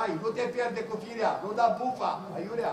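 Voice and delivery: calming. Real, not acted. Coach telling Radu not to lose his temper, calming. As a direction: ease off and steady the player. Coach settles an upset player.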